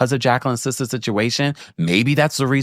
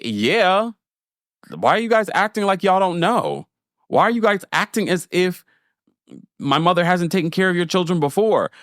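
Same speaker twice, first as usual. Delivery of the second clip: high-pitched mock incredulity; knowing inflection; 8 semitones higher than usual. Babysitter's daughter to the callers, knowingly incredulous. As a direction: imitate the daughter's implied disbelief, pitched well up. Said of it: "it was the inflection".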